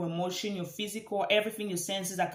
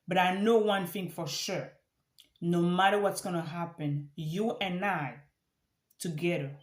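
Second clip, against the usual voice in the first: grateful prayer. Shown as a demonstration. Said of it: "Let me say that again".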